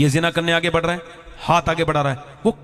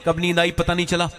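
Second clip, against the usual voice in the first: ordinary talk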